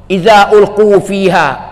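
drawn-out chanted hadith; slow Arabic recitation. Acted. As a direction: intone the Arabic slowly and reverently. Reciting Quran verse. (bacaan hadis Arab yang perlahan dan berlagu)

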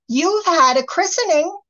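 fairies in chorus. A narrator's reading. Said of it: "said the fairies all together".

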